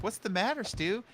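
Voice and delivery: imitating the daughter. Streamer voicing the daughter asking her dad. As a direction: ask like a worried daughter. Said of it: "She's like".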